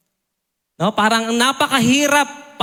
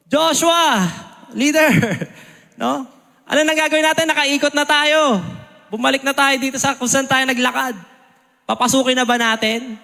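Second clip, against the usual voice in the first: eager soldiers asking; 2 semitones higher than usual. Retold or imitated. Soldier eagerly questioning Joshua, mildly raised. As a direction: play the restless soldier pressing his leader.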